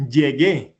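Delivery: "llegué" stretched slowly, stress on the final "gué"; acento en última sílaba. Shown as a demonstration. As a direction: draw out "llegué", leaning on its last syllable. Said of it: "el acento es en la última sílaba". ("llegué" lento, con el acento marcado en "gué")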